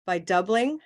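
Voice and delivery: "By doubling" cut off on a rising tune; short chunk. Shown as a demonstration. Teacher testing a break with the class, "By doubling" left hanging. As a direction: pause right after "doubling", pitch rising. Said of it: "like this?".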